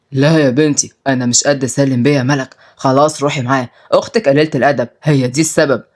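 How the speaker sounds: lightly voiced low, giving-in older relative; cowed uncle, resigned. Uncle tells niece to go along, resigned.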